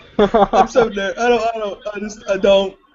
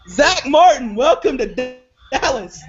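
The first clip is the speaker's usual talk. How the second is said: slow warm welcome; slower than usual. Real, not acted. Welcoming the new player.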